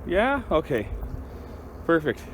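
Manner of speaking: high, sing-song pet talk; cheerful high voice for the dog. Real, not acted. Coaxing the dog to help.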